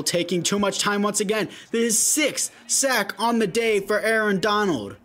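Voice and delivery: lively sports commentary; play-by-play. Acted. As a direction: call the game live. Live play-by-play of his game.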